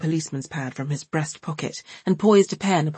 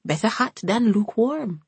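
grim; 6 semitones higher than usual. A narrator's reading. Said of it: "said Hortense grimly".

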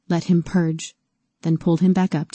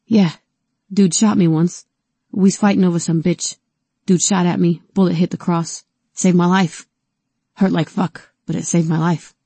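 frightened, raised voice; scared, pleading for his life; shaky scared voice; 3 dB louder than usual. Acted. Frightened T tells his story.

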